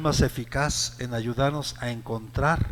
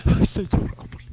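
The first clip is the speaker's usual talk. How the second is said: whiny complaint; 3 dB louder, slower than usual. Retold or imitated. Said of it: "Mire, usted está".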